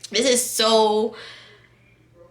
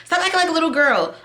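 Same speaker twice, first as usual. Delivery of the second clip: imitating scolding lady; 7 semitones higher, faster than usual. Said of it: "And then she said".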